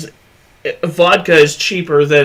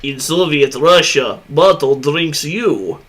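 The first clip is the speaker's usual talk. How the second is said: put-on Russian accent. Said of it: "my Russian accent's fucking horrible".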